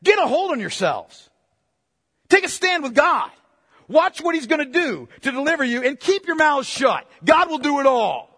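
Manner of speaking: sharp rebuke rising to a shout; rebuking Moses. Retold or imitated. Moses rebuking his murmuring people, rising to a shout. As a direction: scold them to shut up and trust. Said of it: "In fact, he's saying, in effect".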